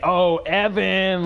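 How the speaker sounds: mild, drawn-out mock call; imitated stage shout. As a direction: stretch the name slowly like a stage announcement. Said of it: "shouted my whole name out on stage".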